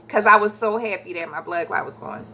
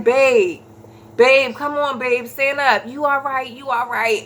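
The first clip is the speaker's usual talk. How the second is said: slightly higher, insistent coaxing; imitating worried husband; 4 semitones higher than usual. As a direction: urge her up, mock-urgent. Voices husband coaxing her up.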